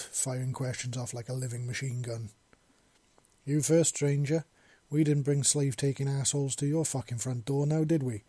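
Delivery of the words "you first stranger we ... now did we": louder, firm and cross challenge; somewhat angry. Acted. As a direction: put the stranger in his place. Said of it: "Wisp said in somewhat angry voice".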